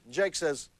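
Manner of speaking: ordinary talk, nothing marked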